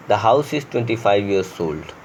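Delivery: slow reading. Shown as a demonstration. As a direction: read the example very slowly. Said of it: "teacher reads example sentence slowly". (धीरे-धीरे उदाहरण पढ़ना)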